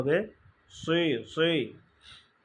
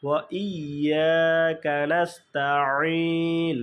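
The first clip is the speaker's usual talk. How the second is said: ইয়াকা না'বুদু recited slowly with the আইন stop; slow recitation; much slower than usual. Shown as a demonstration. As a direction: chant it slowly and clearly. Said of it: "আমরা পড়ে ফেলি".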